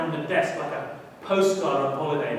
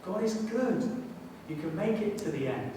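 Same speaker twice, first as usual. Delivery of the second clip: gentle encouragement; 4 semitones higher, 4 dB quieter than usual. Retold or imitated. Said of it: "they say to us".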